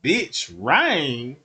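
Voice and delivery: rising, scornful pimp voice; lightly voiced pimp mocking the rain. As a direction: scold her like a cocky pimp. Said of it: "be like".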